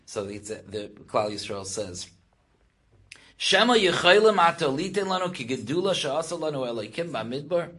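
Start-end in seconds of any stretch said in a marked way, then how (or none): 3.4-7.7 raised, louder chanting-like question; fervent rhetorical question; impassioned challenge. Acted. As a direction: put the challenge fervently, high and rising at the end. Israel's challenge, quoted once more.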